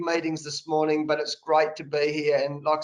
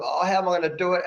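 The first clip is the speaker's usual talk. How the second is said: whinging; much faster than usual. Retold or imitated. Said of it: "I'm being a bit of a sook".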